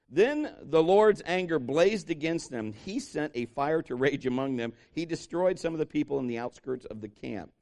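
ordinary talk

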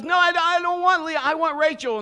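high, loud indignant whine; high distressed protest. Retold or imitated. Jacob refusing Leah, high loud dismayed protest. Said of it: "he goes".

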